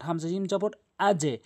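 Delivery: আজে with a bounce that drops downward; qalqala downward bounce. Shown as a demonstration. Teacher showing students a downward bounce on আজে. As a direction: let the জ in আজে jolt downward. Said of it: "এটি নিচের দিকে sound.".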